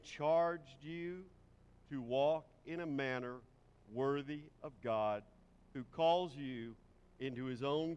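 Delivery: measured, solemn reading pace; scripture reading. Acted. Pastor reading the Bible passage to the standing congregation, solemn. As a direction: read the verses with reverent weight.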